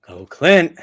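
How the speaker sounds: high, slow creepy doll voice; talking plush toy. Pretend. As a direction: taunt slowly like a possessed toy. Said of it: "your M J F doll goes".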